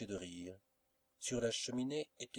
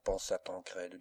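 ordinary delivery

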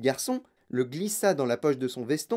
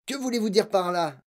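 quick, raised-pitch demand; lively, higher-pitched question; sharp questioning; 5 semitones higher than usual. Acted. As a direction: ask it briskly, wanting an answer. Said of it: "demanda vivement monsieur Tivy".

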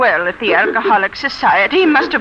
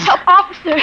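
high, alarmed cry; calling for help; 8 semitones higher than usual. Acted. Woman accosted in the street by a stranger, calling for help. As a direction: cry out to summon the police.

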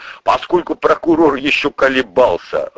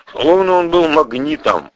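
ordinary talk, nothing marked

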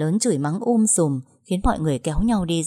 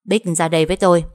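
quick, louder order; hurried command; 6 dB louder, faster than usual. Acted. Cúc dragging the maid forward, quick firm command. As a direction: pull her out without delay. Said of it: "vội kéo nó ra".

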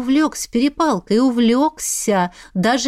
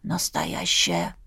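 much lower, slow, stunned voice; slow, low disbelieving exclamation; stunned gasp; 7 dB quieter, slower than usual. Acted. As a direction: drag it out, floored by the news. Boy gasps in disbelief.

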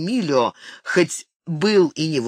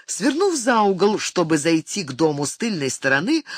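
ordinary delivery, nothing marked

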